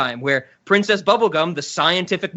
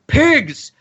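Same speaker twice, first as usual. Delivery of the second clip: shouting pigs; 9 semitones higher than usual. Retold or imitated. The Moon still yelling at the door, mock shout. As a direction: yell pigs again and again. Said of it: "you still hear".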